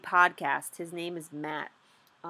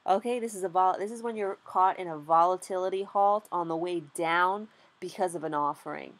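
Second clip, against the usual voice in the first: normal talking voice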